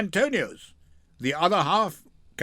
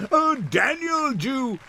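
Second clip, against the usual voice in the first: laughing jeer, pitched up; mocking laugh; 6 semitones higher than usual. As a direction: laugh it in his face. Gratiano mocks Shylock, laughing.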